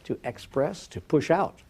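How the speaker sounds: deliberate "express", rising "push out"; spelled-out emphasis. Shown as a demonstration. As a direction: repeat "to express, to push out" as a definition. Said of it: "That is to say".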